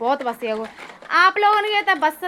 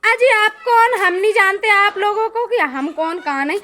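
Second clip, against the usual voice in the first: pretend stranger; 5 semitones higher, 3 dB louder than usual. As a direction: play dumb on the phone to fool her. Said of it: "हमने मौसी को ऐसे पागल बनाया".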